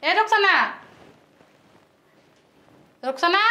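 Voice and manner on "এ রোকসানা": higher-pitched impatient summons; calling out. Acted. Woman calling her sleeping sister-in-law, calling out. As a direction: call the name across the house.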